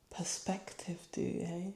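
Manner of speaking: hushed reflective whisper. Real, not acted. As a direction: breathe the words out in wonder. Reflective soft aside.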